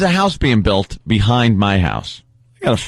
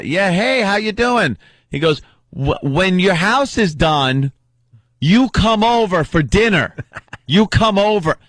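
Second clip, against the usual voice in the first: higher, slow, eager invitation; imitating Keith; 8 semitones higher than usual. Keith invites the neighbour to dinner, eager and high.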